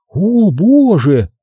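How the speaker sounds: slow, high-pitched feminine admiration; admiring. A narrator's reading. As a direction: draw it out in delighted awe. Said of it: "восхищённо покачала головой Нина". (восхищённо, женским голосом)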